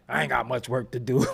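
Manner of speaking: laughing through the stylist's line; joking as the stylist, laughing; laughing stylist quote. Retold or imitated. Stylist joking about the hairlines, laughing. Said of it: "the stylist probably be like".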